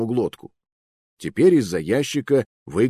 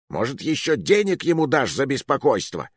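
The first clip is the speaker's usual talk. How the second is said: indignant flare-up; 6 semitones higher than usual. Acted. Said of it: "взвился коротышка".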